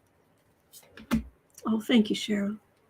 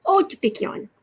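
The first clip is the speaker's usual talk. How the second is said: higher, fond call; cooing to a pet; 7 semitones higher than usual. Real, not acted. Calling the pet by name, high fond coo. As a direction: croon the pet's name up high.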